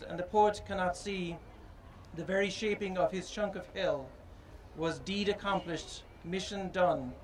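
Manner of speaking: slow, measured poetry recital; poem reading. Acted. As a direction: read each line slowly and solemnly. Reads father's poem aloud.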